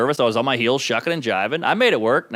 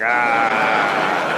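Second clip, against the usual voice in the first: long drawn-out dopey holler; falling, hammed-up "ahhh"; idiot yell; 7 semitones lower than usual. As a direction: drag out a mock idiot cry. Acting out his idiotic true self.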